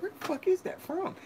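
retold startled outburst. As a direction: jump at the sound. Hearing laughs during sex.

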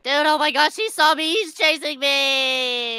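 play-acted panic; alarmed cry. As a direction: cry out as if being chased, drawing out the last words. Being chased in the game.

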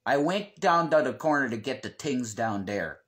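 anthracite-brogue Pennsylvania accent, th turned to t; northeastern Pennsylvania accent. Shown as a demonstration. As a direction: say it like a coal-region Pennsylvanian. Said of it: "The accent from here usually sounds like".

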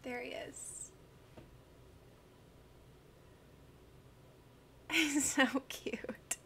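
soft whispered coo. Real, not acted. Owner whispering fondly as the dog appears. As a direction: breathe it out fondly.

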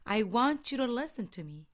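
slow, clear model of I want you to listen to me with linked want you to; slow teacher model sentence; native-like model. Shown as a demonstration. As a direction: read it out slowly for students to copy. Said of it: "원어민처럼 우리 발음 한번 해볼게요".

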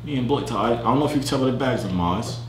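put-on low, chatty British accent; small talk as a casual Brit. Telling a Londoner about Australia, low British accent.

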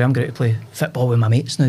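casual Scots schoolboy slang delivery; gallus and cool. Retold or imitated. Boy telling his mum his football plans, gallus and cool. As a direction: toss it off casually, like a cocky lad. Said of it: "you spoke 'cause you were gallus and cool".

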